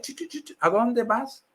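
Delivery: mock priest halting a rambler; cutting someone short. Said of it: "el sacerdote me para en seco".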